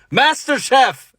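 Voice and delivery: high, loud, drawn-out MasterChef; gleefully announcing MasterChef; excited answer. Retold or imitated. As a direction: shout the show name like a fan. Eager dating app answer.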